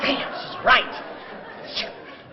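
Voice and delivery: whispered, very slow; rueful whisper. Real, not acted. Admitting to the audience that his wife was right, whispered. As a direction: breathe it out, conceding. Quiet admission after wife's point.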